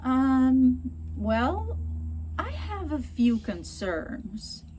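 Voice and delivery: slow, hesitant and tactful; gentle, unhurried reservation; calm and polite. Shown as a demonstration. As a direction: ease into your objection. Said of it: "você pode falar".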